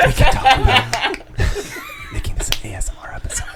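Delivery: high laughing burst. Real, not acted. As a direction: laugh through the words. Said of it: "I'm slurping the coffee".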